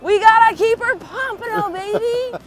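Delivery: loud, high whoop of triumph; whoop, then crow about the catch; excited whoop. Real, not acted. Celebrating a keeper fish.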